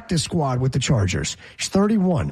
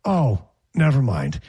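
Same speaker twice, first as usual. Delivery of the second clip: deflated fan; 4 semitones lower than usual. Retold or imitated. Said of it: "they go".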